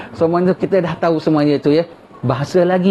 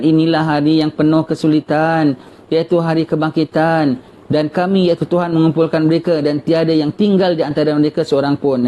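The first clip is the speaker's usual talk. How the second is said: slow, measured recitation of a holy text; solemn scripture reading; slower than usual. Acted. Preacher reading the verse to his congregation in a slow, solemn recitation. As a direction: read it out like sacred verses, unhurried.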